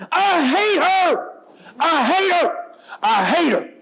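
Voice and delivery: put-on high, loud screaming child, voice cracking with rage; furious shout. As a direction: scream it like an enraged teenage girl. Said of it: "She is mad".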